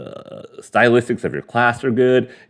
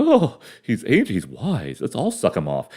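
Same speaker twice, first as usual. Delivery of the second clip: mock swooning women; 6 dB quieter than usual. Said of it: "They're like".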